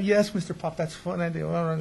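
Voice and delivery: sing-song dutiful yes; forced polite reply. Retold or imitated. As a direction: put on sweet compliance through annoyance. Polite outward reply while fuming.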